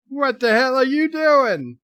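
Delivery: loud, high yelled movie line; mock shout. Streamer echoing the film's outburst, shouted. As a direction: bellow it with the screen.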